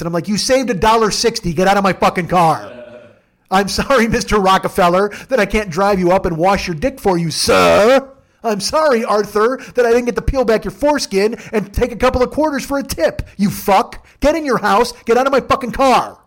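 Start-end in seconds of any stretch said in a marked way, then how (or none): 0.3-2.7 louder, telling off a cheap rider; hammed-up driver rant; mock angry yell. Driver yells at passenger. 3.5-16.2 loud, higher, mock-polite fury; sarcastic furious rant.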